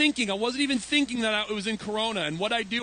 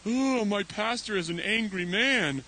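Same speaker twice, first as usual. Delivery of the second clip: lightly mocking child reaction; drawn-out "oh", playing startled children; imitated dismayed kids. Kids react to yelling pastor, mock dismay. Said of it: "the kids are like".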